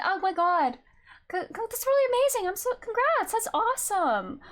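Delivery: high-pitched, gushing congratulations; real excitement, pitch jumping up; delighted congratulations. Real, not acted. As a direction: congratulate them with delighted relief. Congratulating viewer on good recovery news.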